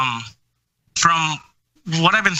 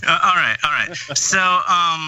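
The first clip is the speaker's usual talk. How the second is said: tinny, lo-fi mic sound; like talking into a tin can; tin can phone. Real, not acted. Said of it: "Are you talking into a sh-, uh, like a, a, a tin can".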